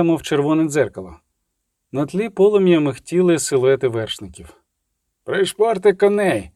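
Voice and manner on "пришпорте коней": lightly voiced urgent shout, drawn out; shouted order. A narrator's reading. Tybald calls back to riders, urging them on, mild shout. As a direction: call back over the shoulder, urging. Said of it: "крикнув, озираючись".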